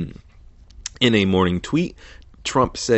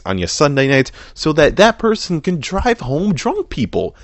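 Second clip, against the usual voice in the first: mock salesman; 3 semitones higher than usual. Mock pitch for boozier vodka.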